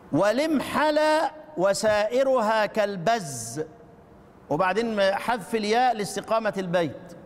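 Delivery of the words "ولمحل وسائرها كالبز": rising chanted quote of the verse; recited verse. Shown as a demonstration. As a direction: recite the sheikh's line. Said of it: "هنا الشيخ يقول". (إنشاد بيت الشيخ)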